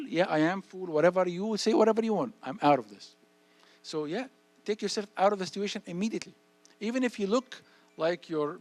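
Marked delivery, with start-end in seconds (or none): 0.1-3.2 loud, shrugging comeback; unbothered retort. Pretend. Kid shrugging off a friend's taunt, loud and firm. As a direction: brush off the insult firmly.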